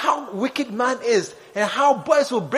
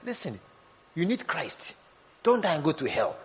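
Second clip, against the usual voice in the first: mock street preaching; 3 semitones lower than usual. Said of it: "talk to her".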